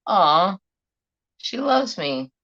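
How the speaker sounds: high, melting "aw"; touched cooing. Retold or imitated. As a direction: coo it like a doting cat owner, pitch lifted. Acting out being touched by cat.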